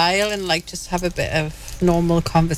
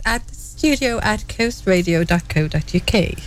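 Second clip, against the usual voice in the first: careful, posh-sounding email read-out. Real, not acted. Co-host gives listeners the studio email, sounding posh. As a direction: read the address in a posh, measured way. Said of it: "It's so posh".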